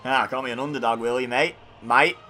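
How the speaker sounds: lightly put-on, amateur Australian accent for fun; shaky-attempt Australian accent. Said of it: "I can't do an Australian accent".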